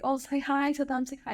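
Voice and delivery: high-pitched, coaxing grandpa; imitated grandpa. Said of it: "there was an old guy, grandpa".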